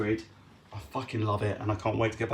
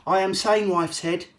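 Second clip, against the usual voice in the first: crazed shout; 7 semitones higher, 6 dB louder than usual. Pretend. Madman voice escalating.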